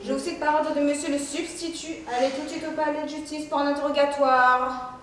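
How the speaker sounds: level, monotone bailiff's proclamation; droning court officer; official summons. Acted. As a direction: recite it formally on one note.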